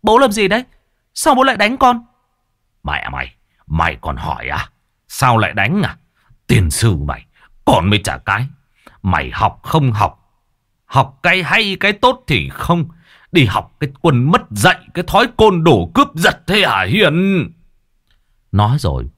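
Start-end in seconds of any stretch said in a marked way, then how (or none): 0.0-2.0 high, loud pained yelp. Acted. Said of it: "kêu lên oai oái". 2.8-17.5 furious father scolding. Acted. Father beating and scolding daughter.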